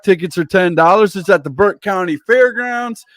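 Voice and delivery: wrestling announcer plugging upcoming shows; event promo read. Real, not acted. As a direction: punch out event names like a ring announcer. Host runs through show promos.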